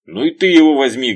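loud, high angry command; angrily. A narrator's reading. Veryovkin orders his bodyguard, loud and angry. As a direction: spit the order in rage. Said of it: "гневно сказал Верёвкин".

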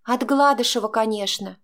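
ordinary delivery, nothing marked

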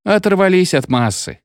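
high, wailing complaint; mild howl. A narrator's reading. Locomotive men complaining about their committee, mildly howling. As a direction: howl it with some restraint. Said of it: "выли паровозники".

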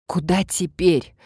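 catching her breath; panting after the climb. Acted. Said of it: "переводя дыхание".

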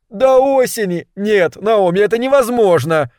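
high-pitched, aghast objection; alarmed protest. A narrator's reading. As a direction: refuse the delay, voice shooting up. Milt protests the delay in alarm. (возмущённо, высоким голосом)

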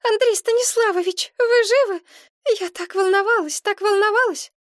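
high, loud, anxious rush; excited blurting. A narrator's reading. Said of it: "взволнованно выпалила".

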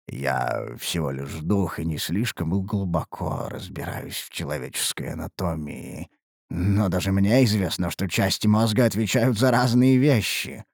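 low, grave ancient spirit; a deep-voiced elder spirit cautioning; old spirit voice. Ancient spirit warns the adept. (низкий голос древнего духа)

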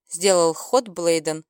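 ordinary delivery

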